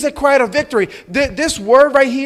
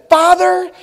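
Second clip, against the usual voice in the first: high, raised call; crying out; 7 semitones higher, 4 dB louder than usual. Acted. Jesus calling to his Father from the cross, crying out. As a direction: call out loudly, pitch lifted. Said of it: "cried out with a loud voice".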